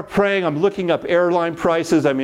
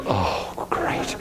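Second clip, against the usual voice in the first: dazed; 9 semitones lower, 7 dB quieter than usual. Retold or imitated. Couple offers the ticket.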